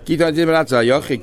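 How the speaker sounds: fast recap of the same quoted line; quick re-quote. Shown as a demonstration. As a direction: rattle the quote off quickly as a reminder.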